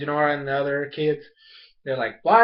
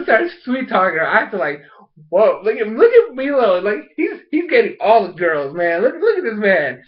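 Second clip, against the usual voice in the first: higher, louder, teasing hype; hyped-up admiration; 4 semitones higher, 4 dB louder than usual.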